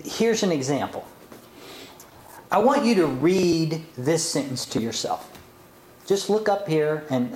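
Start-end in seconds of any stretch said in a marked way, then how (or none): none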